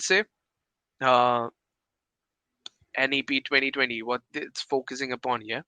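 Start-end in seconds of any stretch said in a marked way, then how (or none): none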